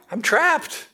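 high, panicky monkey cry; a touch of a screeching monkey. Acted. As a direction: plead like a trapped monkey. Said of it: "he screeched".

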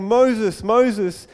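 loud, lightly acted divine call; booming voice of God. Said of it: "booming voice of God saying".

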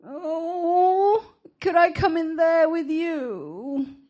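high, drawn-out puppyish whine; tinny whine. A narrator's reading. Dog begging to join Esther in bed, puppyish whine. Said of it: "out came a tinny whine".

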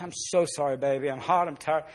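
soft, low retold apology; hushed, regretful dad; apologetic. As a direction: apologize gently to your child. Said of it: "Tried to explain to her".

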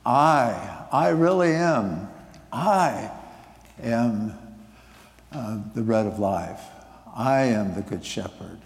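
leaning hard on really in "I really am"; emphatic declaration with "really" stressed. Shown as a demonstration. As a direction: insist on each "I am", pressing down on "really". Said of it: "with emphasis".

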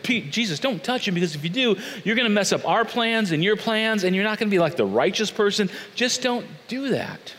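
high-pitched worried protest; anxious pleading. Acted. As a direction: plead with him to stop. Acting Peter pleading with Jesus.

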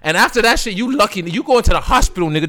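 high rapper impression, ranting. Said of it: "That's my Plies voice".

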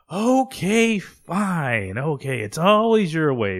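loud, high, hammed-up exasperation; exasperated surrender. Acted husband giving in to wife.

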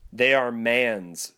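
slow, weighty ghost pronouncement; solemn spirit voice. Acted. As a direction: lay the words down like a verdict.

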